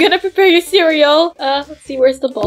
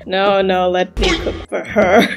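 lower, posh-star voice, lightly put on; acting like Miss T; 7 semitones lower, 3 dB quieter than usual. Vidya grabbing the cooking from the babysitter, lightly voiced Miss T. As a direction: play the movie-star chef. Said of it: "you're acting like Miss T".

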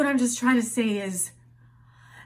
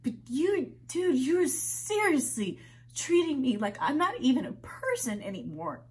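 rising indignation; 4 semitones higher than usual. Acted. Complaint to mother builds.

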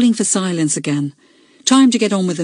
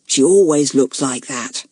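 hissed; 4 semitones lower than usual. A narrator's reading. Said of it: "hissed Julian".

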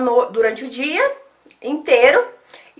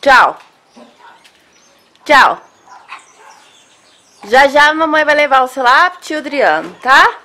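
loud goodbye; 5 dB louder than usual. Real, not acted. Farewell to the dog.

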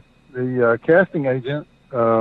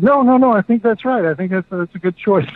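mock Scorsese; 6 semitones higher than usual. Scorsese reassures him at audition.

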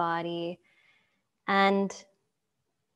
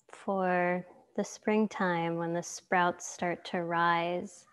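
calm yoga teacher guiding a relaxation; guided meditation. Acted. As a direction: lead them gently into stillness, unhurried.

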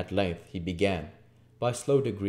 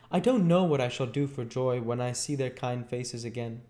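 lightly voiced, higher happy boy; joyful little boy; 5 semitones higher than usual. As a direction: speak as an overjoyed child. Voices Oliver in the story.

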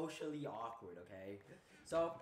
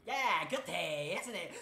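awkward small talk; 5 semitones higher, 10 dB louder, slower than usual. Retold or imitated. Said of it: "I was like".

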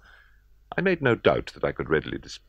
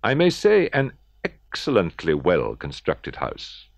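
overexcited boast; 3 semitones higher, 4 dB louder, slower than usual. Acted. Murderer boasts to police, overexcited.

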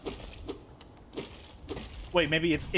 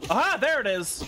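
aha discovery; 6 semitones higher than usual. Real, not acted. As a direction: pounce on it with delight. Finds hidden item in game.

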